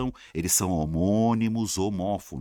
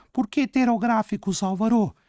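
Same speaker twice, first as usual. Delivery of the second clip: high-pitched put-on pupil questioning the teacher; high imitation of a puzzled pupil; mock student voice; 12 semitones higher than usual. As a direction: squeak out a student's question in falsetto.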